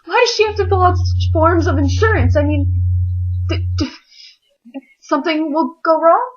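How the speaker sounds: high, loud, worried whine; nervous kid fussing about insurance forms, high and anxious; panicky high voice. Retold or imitated. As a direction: fret aloud in a squeaky panicked voice. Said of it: "you're like".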